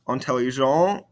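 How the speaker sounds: "Intelligent" rising on an open nasal vowel; no T at the end of "Intelligent"; silent ending consonants. Shown as a demonstration. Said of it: "these ending consonants".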